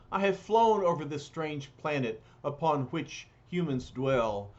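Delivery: tired, sorrowful, grand speech; lightly voiced lament; weary heartsick hero. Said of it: "the weary, heartsick Silver Surfer speaks".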